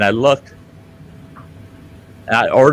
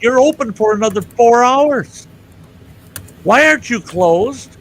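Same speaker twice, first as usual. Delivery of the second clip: indignant; 8 semitones higher, 3 dB louder than usual. Retold or imitated. Retold argument with clerk.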